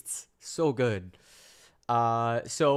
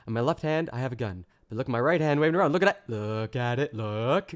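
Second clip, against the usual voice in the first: fast, louder mock rally voice; mock Trump; 4 dB louder than usual. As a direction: rattle it off like a showman distracting.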